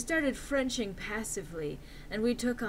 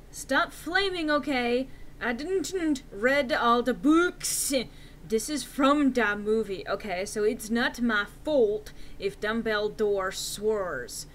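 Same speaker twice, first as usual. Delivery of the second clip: indignant whine; 3 semitones higher, 6 dB louder, slower than usual. Acted. Indignant author's note read aloud.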